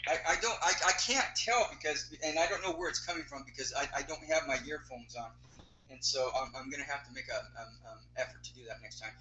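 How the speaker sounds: tinny speakerphone sound; talking into a speakerphone. Real, not acted. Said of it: "it sounds like you're on a speakerphone".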